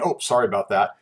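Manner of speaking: casual sorry in passing; offhand apology. Shown as a demonstration. Teacher mimicking someone who misspeaks and keeps going, offhand. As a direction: brush past it with a throwaway apology. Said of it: "and misspeaking".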